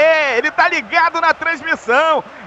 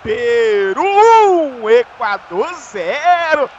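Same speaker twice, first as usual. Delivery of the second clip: slow, drawn-out score call; explosive goal commentary; slower than usual. Real, not acted. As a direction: stretch out every word of the score. Announces score after goal.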